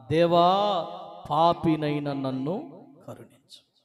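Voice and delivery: slow, low, grieving prayer for mercy; a sinner beating his chest in sorrow; sobbing plea. Acted. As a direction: weep out the cry for mercy. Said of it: "బోరున ఏడుస్తూ రొమ్ములు కొట్టుకొని".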